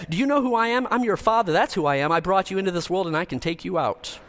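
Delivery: hammed-up parental lecture, rising in outrage; exasperated parent. Preacher performing parents scolding a child, mock exasperation. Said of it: "Seventy Sayings of a Parent".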